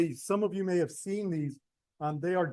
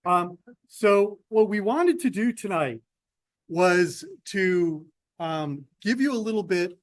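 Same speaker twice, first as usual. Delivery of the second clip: louder, projected lecturing voice; professor voice; 2 semitones higher, 4 dB louder than usual. Real, not acted. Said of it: "I'll use my professor voice".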